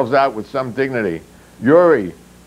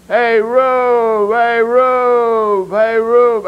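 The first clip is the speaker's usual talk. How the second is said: much higher, louder rallying yell; shouting; 12 semitones higher, 4 dB louder, much slower than usual. Acted. Ben calling his comrades during the brawl, shouting. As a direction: yell for help at full voice. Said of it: "Ben shouted".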